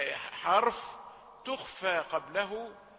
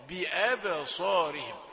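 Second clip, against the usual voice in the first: deliberate, measured demo of بأبصارهم; unhurried, careful articulation; slower than usual. Shown as a demonstration. Teacher showing unhurried reading of a hard word, slow and careful. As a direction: say بأبصارهم slowly, every sound given time. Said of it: "لا يتأتى إلا إذا كنت متأنيا".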